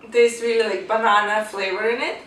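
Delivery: talking through a bite; chewing while speaking; mouth full. Real, not acted. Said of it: "I'm talking with the full mouth".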